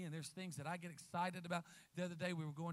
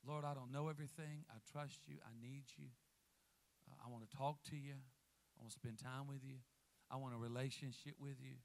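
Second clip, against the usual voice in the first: soft, hushed humble prayer; childlike prayer; 5 semitones lower, 8 dB quieter than usual. Pretend. Preacher modelling a child's prayer to God, hushed. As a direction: pray it like a trusting child, very softly.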